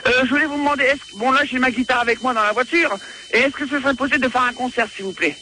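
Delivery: lightly imitated singer making a request; tentative put-on star voice. Fake singer asks to give a concert, lightly impersonated. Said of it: "tu vas nous faire une imitation de Patrick Bruel".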